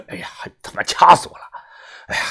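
气声抱怨; 喘着气骂出来. A narrator's reading. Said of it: "喘着气呀". (喘着粗气抱怨)

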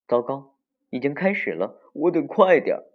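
put-on flustered child, rising to high and loud; urgent self-prodding exclamation; anxious. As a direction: fret that you are late. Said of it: "可可心里一急".

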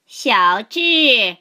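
shrill scream. A narrator's reading. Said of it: "传来一声尖叫".

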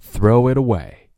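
"throw it away" joined as one word; linked words. Shown as a demonstration. Teacher showing learners the link in "throw it away". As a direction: let the t of "it" glide into "away". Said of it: "然后连起来".

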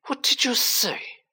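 high, slow, drawn-out demand; incredulous spitting. A narrator's reading. Malfoy questioning his servant, spat out slowly. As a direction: draw the question out in high-pitched disbelief.

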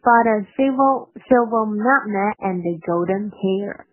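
line read in a quick, linked flow; connected, brisk model reading; quick demo. Shown as a demonstration. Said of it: "我同样是先快再慢这块".

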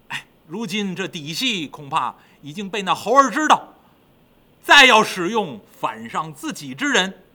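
slow, heavy-hearted ruler; slow, deliberate, sorrowful king; grieving demon king. Acted. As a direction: give orders with weary regret. King broods over lost treasures.

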